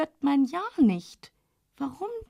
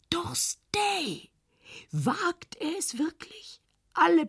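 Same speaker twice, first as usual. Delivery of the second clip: higher alarmed exclamation; startled, rising outcry; shocked cry; 7 semitones higher, slower than usual. A narrator's reading. Else ruft innerlich auf. (erschrockener Ausruf)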